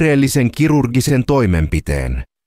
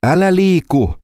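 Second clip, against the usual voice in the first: growled; 7 semitones higher than usual. A narrator's reading. Gunman growls at the doctor, a mild menacing growl. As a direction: growl it as a threat. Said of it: "murahti tuttu ääni".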